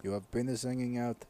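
deadpan mock Russian accent. Russian guys bragging to each other, in a Russian accent. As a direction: boast and bicker as Russian guys. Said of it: "completely lost with the Russian accent".

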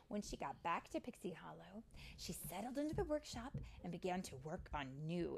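even, winding-down storybook reading; understated storytime voice; story narration for children. A narrator's reading. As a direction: read the ending to little ones.

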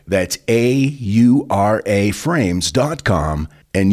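each letter spaced out, slow; spelled out slowly. Shown as a demonstration. Host reading an ad, spelling the web address slowly. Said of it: "repeating the web address".

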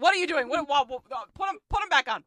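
mock yelling. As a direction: imitate alarmed officials giving orders. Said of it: "they yelled".

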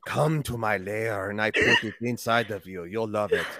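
slow, leering troll under a bridge. Pretend. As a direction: drag it out like a creepy troll. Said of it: "Like a troll".

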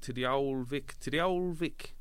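put-on "old Vic" said very slowly, word by word; careful enunciation. Shown as a demonstration. Actor correcting a misheard line, enunciating "old Vic" slowly. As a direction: draw out "to the old Vic" so each word is clear. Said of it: "I was saying to the old".

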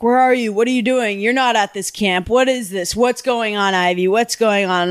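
imitating a dad firing off questions; lightly voiced worried parent interrogation; mildly frantic dad. Retelling dad's phone call to missing daughter, mildly frantic.

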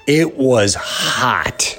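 breathy slow whisper, voice gone; awed whisper. Retold or imitated. After biting the pepper, telling the audience, slow awed whisper. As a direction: whisper it as if the heat stole your voice. Burning pepper, hushed reaction.

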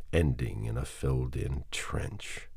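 ordinary delivery, nothing marked

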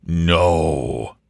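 low, booming mock roar; voice of thunder. Sir Jasper interrupts the lovers, low voice of thunder. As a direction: thunder it low, without much extra volume. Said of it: "shouted a voice of thunder".

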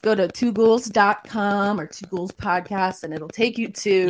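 clicking, crackly mic sound. Real, not acted. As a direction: talk through a clicking mic. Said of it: "Your mic is clicking again".

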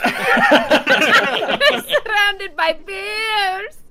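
high, slow Scottish brogue through laughter; giggling Scottish voice; Scottish accent. Pretend. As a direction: drag it out laughing in mock Scottish. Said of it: "We're all Scottish now".

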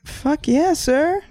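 high, pleased exclamation; mock delight. Comedian delighted at being called sir, retold glee. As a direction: relish it with mock pride. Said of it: "And I was like".

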